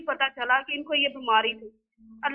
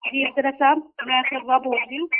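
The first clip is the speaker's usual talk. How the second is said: crackly cordless phone; 4 dB louder than usual. Real, not acted. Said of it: "आपकी आवाज़ साफ नहीं है".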